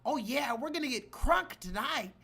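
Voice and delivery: high, loud mock of a party girl; mocking white woman. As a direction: ham up a clueless party girl. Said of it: "This woman literally said".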